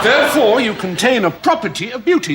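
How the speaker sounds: loud triumphant therefore. Acted. Pompous philosopher to interviewer, booming his conclusion loudly.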